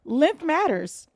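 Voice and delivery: slow, drawn-out reading. Retold or imitated. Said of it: "Whittington says".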